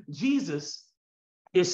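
said through a real chuckle; laughing. Real, not acted. Preacher resuming his sentence about Jesus, laughing. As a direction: laugh lightly through the word.

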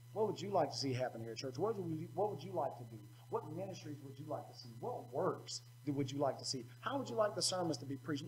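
soft friendly asking. Retold or imitated. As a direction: ask them softly with interest. Acting out asking youth.

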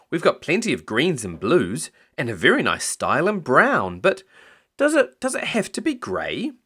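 lilting shop assistant, jumping high at the question; eager young salesman. Acted. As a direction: offer options, then ask in a high, hesitant voice.

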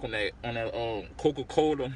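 speaking between bites; talking while chewing. Real, not acted. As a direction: mouth partly full. Seen 1: Bites from hand just before; food hand stays at mouth.

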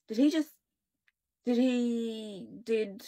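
halting, broken-off words; stuttering. A narrator's reading. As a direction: stammer through it in shock. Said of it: "Mel stuttered".

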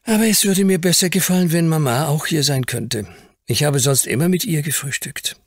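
put-on high, quick child's voice longing for Mama; a small boy who misses his mother; little lord homesick at breakfast, high and longing; wistful little boy. A narrator's reading.

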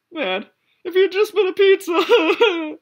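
high laughing exclamation; real laughter reacting to the story. Real, not acted. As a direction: laugh through the words.

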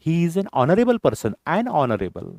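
very slow, spaced words; slow teacher's demo; slow model sentence. Shown as a demonstration. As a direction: spell it out slowly for the class. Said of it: "नाही".

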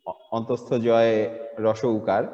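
very slow, letter by letter; slow halting spelling; broken into pieces. Shown as a demonstration. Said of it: "এভাবে যদি ভেঙে, ভেঙে".

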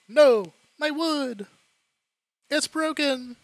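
high, loud hammed-up wail; mock anguish. Player mourning fallen wood, mock anguished wail. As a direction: cry out in overblown distress.

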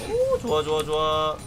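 excited. Real, not acted. Sudden big play cheer.

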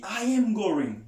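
slow, every word spelled out; slow full form demo. Shown as a demonstration. Teacher demonstrating the slow full form for students. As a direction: say it slowly and in full, I am going. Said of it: "mwen di".

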